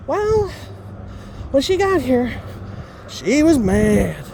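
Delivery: drawn-out, emphatic gossip report; retold sister-in-law. Sister-in-law reporting on mom's arrival, imitated with slow emphasis. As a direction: stretch the last words slowly for weight. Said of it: "she said".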